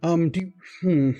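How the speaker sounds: keen student fumbling to offer a trade; Lamont in character. Acted. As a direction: Lamont bargaining with his new teacher, eager and flustered.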